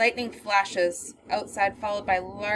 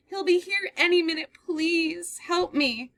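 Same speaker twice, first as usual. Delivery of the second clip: terrified pleading; 9 semitones higher than usual. Acted. Girl begging the man to keep the door locked, terrified. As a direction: beg him to keep the door shut.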